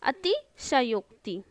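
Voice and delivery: "अतिशयोक्ति" slowly, ati then sha-yok-ti; full sha. Shown as a demonstration. Teacher recapping for students, slow and segmented. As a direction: separate "अतिशयोक्ति" with a whole sha. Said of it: "बढ़ा चढ़ा के लिखेंगे".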